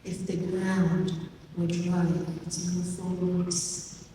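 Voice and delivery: measured poetry recital with long pauses; poem reading. Acted. Poet reading their poem to an audience, slow, deliberate recital. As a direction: read it as verse, phrase by phrase, letting each image land. Reads own poem aloud.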